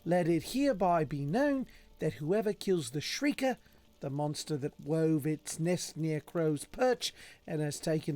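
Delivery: put-on proclamation of a village notice; lilting, formal notice reading; contract read in character. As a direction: read the bounty notice out in role. Reads a monster contract in character.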